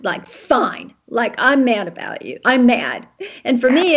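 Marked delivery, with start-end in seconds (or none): 0.3-3.1 mildly curt, mock-mad retort; nasty fine. Wife imitates husband's ex-wife saying fine, mildly nasty. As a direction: imitate an annoyed spouse, understated. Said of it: "it was, like, nasty".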